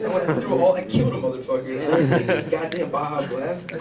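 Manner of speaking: laughing while ranting. Real, not acted. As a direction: rant through laughter. Laughing rant about the soda.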